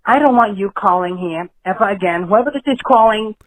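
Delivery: protective wife snapping down the phone; a fed-up Carmela-type wife warning off the caller; wife cutting in on the call, firm and annoyed; angry wife. Acted. Caller voices the mob boss's wife.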